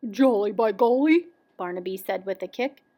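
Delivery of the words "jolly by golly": hint of a jolly storybook bear; lightly voiced bear. A narrator's reading. Papa bear kicks and exclaims, lightly voiced. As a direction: exclaim with a touch of bear heartiness.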